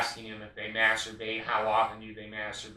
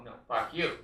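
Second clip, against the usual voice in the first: mock church reply. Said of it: "for the Mormon Church to go".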